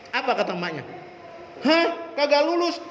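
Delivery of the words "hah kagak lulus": much higher, stunned gasp of a question; a mother reading her son's failing result, shocked. Retold or imitated. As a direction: react like a mother who can't believe it.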